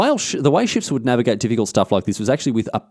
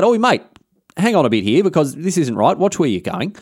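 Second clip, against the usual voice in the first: retold yell; 5 semitones higher than usual. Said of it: "he yells out".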